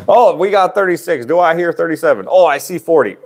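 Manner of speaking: high, lively auction calling; auctioneer voice. Pretend. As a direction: call the bids like an auctioneer. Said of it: "uh, auctioneer voice".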